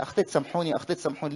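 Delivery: rote apology. Retold or imitated. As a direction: mumble it like a habit, fading away. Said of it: "زي ما اتعودنا كده".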